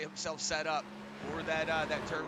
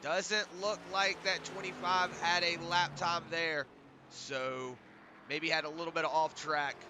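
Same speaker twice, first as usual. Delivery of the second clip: blocked nose from a cold; talking through a stuffed-up nose; stuffy nose. Real, not acted. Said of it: "Sorry if I sound a little stuffy".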